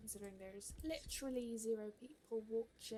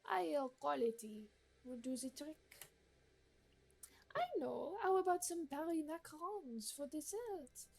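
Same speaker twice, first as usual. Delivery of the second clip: haughty gourmet lady; 4 semitones higher than usual. Acted. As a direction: read it like a picky aristocrat giving orders. Voicing the gourmet NPC Marguerite.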